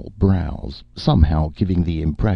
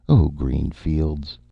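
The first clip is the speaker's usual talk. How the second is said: babbling; much slower than usual. Acted.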